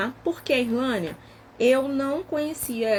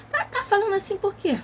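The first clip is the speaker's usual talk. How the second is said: startled question; 11 semitones higher than usual. Retold or imitated. Parent questioning child's tone.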